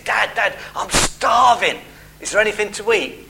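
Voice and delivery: mock whine of a child, drawing out STARVING; lightly voiced kid calling for Dad; imitated hungry kids. Kids home from school begging Dad for food, imitated hungry pleading. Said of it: "My kids come home from school".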